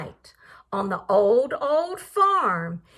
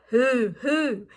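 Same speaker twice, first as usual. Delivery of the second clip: hollered hoo; 4 semitones lower than usual. Acted. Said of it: "who hollered".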